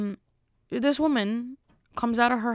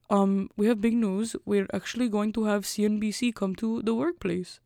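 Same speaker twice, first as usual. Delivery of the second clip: put-on Russian accent. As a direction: boss breaking big news in Russian accent. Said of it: "so he talks like this".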